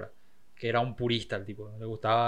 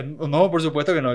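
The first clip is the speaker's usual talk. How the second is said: emphatic denial; 3 semitones higher, 10 dB louder than usual. Retold or imitated. Bocelli answering the teacher.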